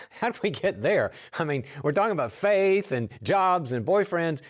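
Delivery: high, loud baffled protest; laughing into an incredulous objection. Retold or imitated. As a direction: push back in loud, high-pitched disbelief. Incredulous reply in retold talk.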